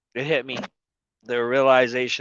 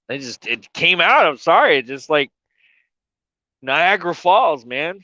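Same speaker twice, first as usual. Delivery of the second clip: crying, slow; 4 semitones higher than usual. Real, not acted. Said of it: "I'm just wiping tears and snot".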